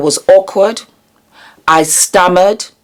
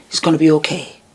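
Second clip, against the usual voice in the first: quiet, tender it's gonna be okay; soft reassurance; 4 dB quieter, much faster than usual. Retold or imitated. Reassuring her younger self, softly and tenderly. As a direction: say it gently to a frightened child. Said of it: "I would have wanted somebody to tell me".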